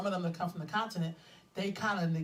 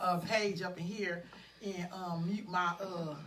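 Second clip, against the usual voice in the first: slow, softer hesitant trailing; drawn-out filler talk; 5 dB quieter, slower than usual. Real, not acted. Host fiddling with her page, hesitant and drawn out. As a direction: stall on each uh while busy. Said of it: "what if somebody really talk like that".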